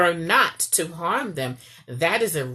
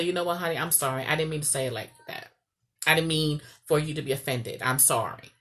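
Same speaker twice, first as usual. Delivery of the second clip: softer and lower, a tender apology; gentle apology; 3 semitones lower, 5 dB quieter, faster than usual. Retold or imitated. Wife apologizing to her husband, soft and tender. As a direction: ease down, say sorry sincerely to your honey. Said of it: "So I say".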